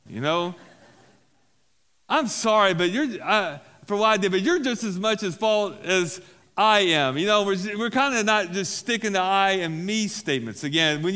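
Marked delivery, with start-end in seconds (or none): 2.1-7.2 louder, accusing half-apology; snippy fake apology. Shown as a demonstration. Pastor acts out an accusing amends, snippy and blaming. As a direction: blame them while saying sorry. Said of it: "unwholesome talk".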